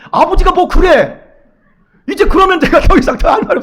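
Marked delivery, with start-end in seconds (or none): 0.1-1.2 put-on slow, higher childish protest; kids' complaint. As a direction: drag it out like a sulking child. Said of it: "안 들어주면". (느리고 높게 투정하는 아이 말투)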